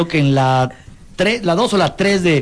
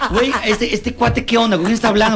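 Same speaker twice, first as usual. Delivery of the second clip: puzzled passenger; 2 semitones higher than usual. Retold or imitated. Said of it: "Y dices".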